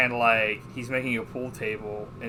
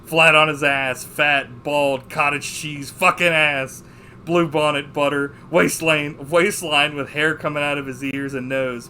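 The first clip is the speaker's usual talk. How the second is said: loud, higher, punched-out movie monologue; acted rant; 3 semitones higher, 8 dB louder than usual. Fed-up husband rants about his lost youth, imitated ranting. Retelling the film character's rant.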